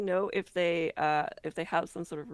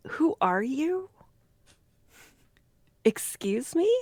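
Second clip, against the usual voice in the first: mildly indignant, louder questioning; a touch of startled offence, pitched up; taken aback; 5 semitones higher, 5 dB louder than usual. Acted. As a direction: act out an affronted challenge. Player voices Senka confronting the watching cats.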